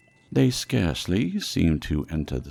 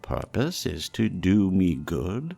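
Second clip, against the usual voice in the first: put-on earnest, raised old miser pleading; pleading Scrooge; 3 semitones higher, 5 dB louder than usual. Scrooge humbly pleads with the silent phantom, raised and earnest. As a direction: beg the silent ghost to guide you.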